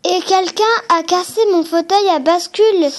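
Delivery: put-on understated whiny baby bear crying out. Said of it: "dit Bébé Ours en pleurant". (petit ours qui pleurniche, pour de faux)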